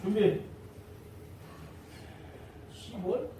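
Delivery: ordinary delivery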